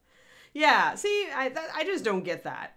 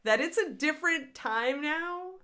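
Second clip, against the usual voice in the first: mock indignant complaint; 8 semitones higher than usual. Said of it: "to make a complaint to them and ask them".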